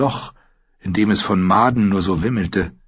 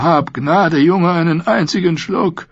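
pleading call; 9 semitones higher than usual. A narrator's reading. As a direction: drag it out, begging for one sip. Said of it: "rief der Vetter".

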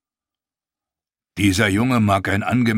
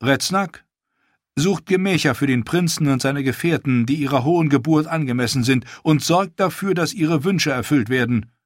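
put-on higher, teasing young queen's voice; lightly higher regal queen, playful; queen Daenerys; 5 semitones higher than usual. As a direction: tease the prince, then turn to business.

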